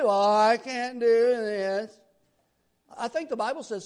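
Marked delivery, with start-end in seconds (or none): 0.0-2.0 slow, drawn-out mock whimper; mock defeatist whine. Pastor mocking people who say they can't, slow mock whine. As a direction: stretch it out like a pitiful complaint. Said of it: "speaking about what you cannot do".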